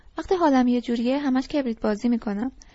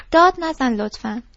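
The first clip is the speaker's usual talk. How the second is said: exasperated plea; 7 dB louder than usual. Acted. Sally cuts off his rant.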